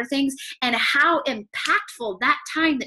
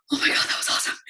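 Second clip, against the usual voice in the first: awed exclamation; much faster than usual. Retold or imitated. Touched, exclaiming in awe.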